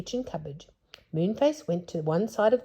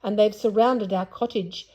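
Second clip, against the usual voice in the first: louder, growling alarm; growled loudly; 3 semitones higher, 7 dB louder than usual. Acted. Father Bear warning everyone, mild loud growl. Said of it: "he growled loudly".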